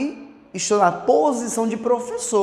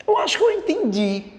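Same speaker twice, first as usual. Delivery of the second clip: higher-pitched voice of a student; imagined student; 8 semitones higher than usual. Acted. Teacher voicing a student who thinks they understood, higher-pitched. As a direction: lightly play a student, pitched up. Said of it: "Aí você diz".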